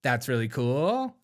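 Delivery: put-on slow Valley girl drawl; mock Valley girl. Host teasing the director's voice, mock Valley girl. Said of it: "This voice inflection is really cool".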